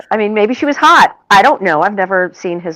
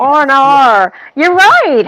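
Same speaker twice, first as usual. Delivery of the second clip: higher-pitched put-on Australian accent; Aussie accent; 4 semitones higher, 4 dB louder, slower than usual. American co-host following the 'oh no' tutorial, bold Aussie accent. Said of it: "Tutorial for Americans. For an Australian".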